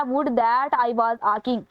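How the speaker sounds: reading the line extremely slowly. Shown as a demonstration. Teacher reading a quiz item to the class, very slow. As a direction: drag out each word of the question.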